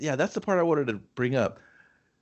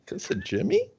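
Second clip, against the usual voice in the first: squeaky, high, laughing question; laughing disbelief; 5 dB quieter than usual. Real, not acted. Hearing the actor is Cousin Jimmy, laughing shock.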